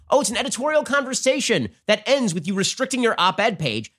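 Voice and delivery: high, sarcastic "oh" mocking the claim; sarcastic scoff. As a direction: scoff at the excuse. Sarcastic retort to quote.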